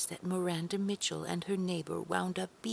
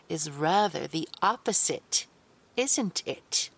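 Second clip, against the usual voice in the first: scolding; 8 dB louder than usual. Acted. Carol scolds Dinah for hiding things.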